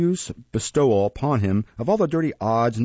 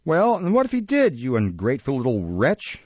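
high-pitched, scornful outburst falling at the end; indignant scolding; 4 semitones higher than usual. Acted. Mistress scolding the ungrateful apprentice, indignant. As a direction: tear into him, starting high.

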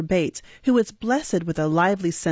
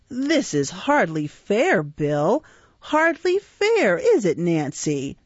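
lightly voiced whining Fagin; slower than usual.

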